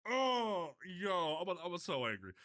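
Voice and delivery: loud frustrated groan into complaint; real anger. Real, not acted. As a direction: burst out high and loud, then sink.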